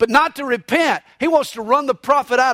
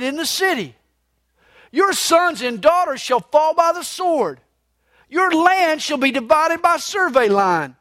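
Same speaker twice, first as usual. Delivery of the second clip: bold prophet pronouncing judgment; prophetic declaration; 4 semitones higher than usual. Retold or imitated. Amos announcing judgment to King Amaziah, bold prophetic declaration. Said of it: "what he says to King Amaziah".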